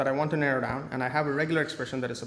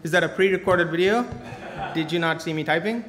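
laughing tease; 3 semitones higher, 5 dB louder than usual. Pretend. Teasing imagined viewer, laughing.

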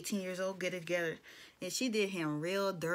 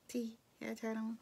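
cute; 7 dB quieter, faster than usual. Retold or imitated. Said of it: "And Cammy was so cute".

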